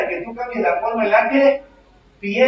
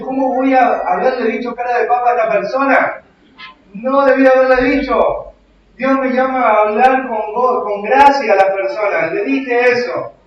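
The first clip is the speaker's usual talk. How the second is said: remorseful self-talk; 3 semitones higher, 5 dB louder than usual. Retold or imitated. Voices a remorseful believer's thoughts.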